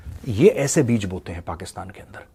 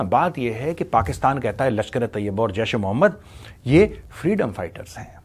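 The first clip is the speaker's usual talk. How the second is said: ordinary talk, nothing marked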